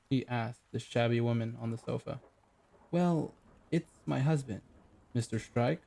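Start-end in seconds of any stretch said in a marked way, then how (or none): 2.9-5.8 put-on West Country accent. Shabby client to the detective, lightly West Country. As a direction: explain in a plain West Country lilt. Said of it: "West Country accent".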